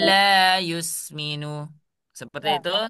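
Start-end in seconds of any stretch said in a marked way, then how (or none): 0.1-1.7 "La yusminu" with the lam pressed hard and slow; teacher demonstrating the wrong way to start; wrongly stressed tasydid. Shown as a demonstration. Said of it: "Contohnya seperti ini".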